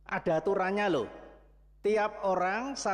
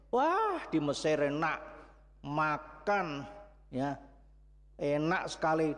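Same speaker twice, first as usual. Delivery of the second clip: wistful grumbling. Acted. Preacher voicing Israelites longing for Egypt, wistful grumble. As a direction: sigh for the good food of Egypt.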